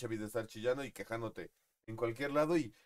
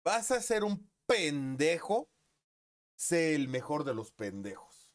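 grandfather's advice; 3 semitones higher, 4 dB louder, slower than usual. Retold or imitated. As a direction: preach it like grandpa. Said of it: "como me lo dijo mi abuelo".

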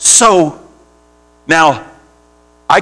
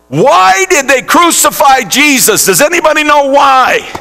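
fervent questioning; 10 semitones higher than usual. Real, not acted. Preacher questioning the congregation.

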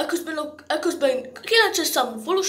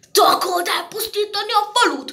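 accusing interrogation; 5 semitones higher, 4 dB louder than usual. Acted.

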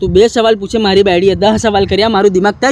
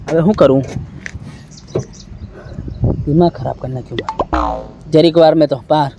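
despairing mumble; 8 semitones lower, 5 dB quieter than usual. Acted. Drunk husband despairs after call.

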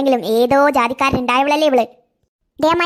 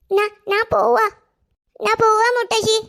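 put-on much higher toddler voice babbling; baby talk; 7 semitones higher, slower than usual. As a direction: babble like a small child to grandma. Toddler says she is going. (കൊഞ്ചി പറയുന്ന കുഞ്ഞ്)

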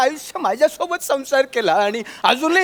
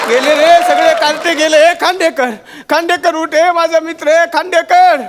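hammed-up alarmed calling; urgent calling; 2 semitones higher than usual. Old man tries waking his collapsed friend, urgent calling. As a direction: call him to get up, urgently.

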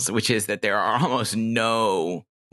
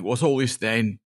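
Cockney watchman; 2 semitones higher than usual. Acted. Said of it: "Night Watchmen always are Cockney".

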